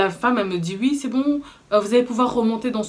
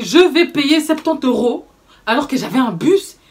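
indignant; 3 semitones higher, 5 dB louder than usual. Retold or imitated. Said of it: "Je dis".

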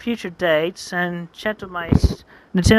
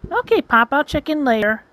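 perky friend; 6 semitones higher than usual. Acted. Voices Roshu answering him.

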